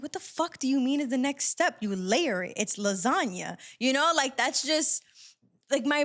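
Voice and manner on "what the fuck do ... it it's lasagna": higher, exasperated retort; fiery snap. Retold or imitated. The speaker's inner reaction to a friend's cooking question, exasperated snap. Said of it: "I had, like, this fire".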